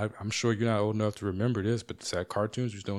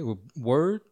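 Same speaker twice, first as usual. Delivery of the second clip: unsaid irritation; 4 semitones higher than usual. Retold or imitated. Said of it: "I didn't say any of this".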